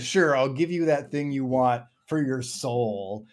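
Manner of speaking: mock-sarcastic drawn-out agreement, pitched a little up. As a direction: agree sarcastically, slowly, as a retold demon. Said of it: "the demon sarcastically said".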